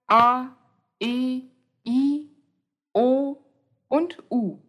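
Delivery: each vowel A, E, I, O, U said clearly and separately; vowels spoken out. Shown as a demonstration. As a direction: announce the vowels one by one, slowly. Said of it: "Die Vokale". (Vokale deutlich einzeln vorgesprochen)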